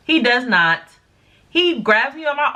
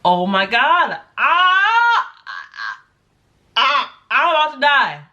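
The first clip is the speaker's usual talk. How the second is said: panicked crying; 4 semitones higher, slower than usual. Retold or imitated. Telling her boyfriend she thought she'd die, cracking voice. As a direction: voice cracking high in retold terror. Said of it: "I was just like".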